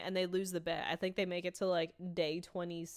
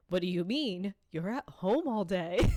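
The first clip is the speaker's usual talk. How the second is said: much louder, incredulous Dennis jab; mock indignant; 8 dB louder than usual. Dennis mocking Mac for being home all day, indignant. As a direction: scoff like he can't believe the excuse.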